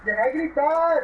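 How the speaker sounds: loud angry yell; shouting. Real, not acted. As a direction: yell at them to stop. Yelling at noisy friend.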